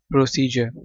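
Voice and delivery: "प्रोसीजर" with the final R dropped; silent R. Shown as a demonstration. Teacher listing words for process, "प्रोसीजर" with silent final R. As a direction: say "प्रोसीजर" British style, ending on a vowel. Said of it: "again आर silent".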